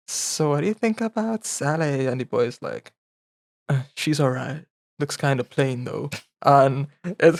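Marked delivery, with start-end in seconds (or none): 0.1-2.1 gossipy whisper. Retold or imitated. Gossiping schoolgirl quoted softly. 3.7-6.1 offhand mumble. Retold or imitated. Boy answers the gossip softly.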